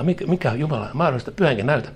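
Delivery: quick, pushy mock challenge; challenging God. Believer demanding an answer from God, fast and pushy. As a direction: fire the question at God, half daring him. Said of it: "Haastat Jumalaa".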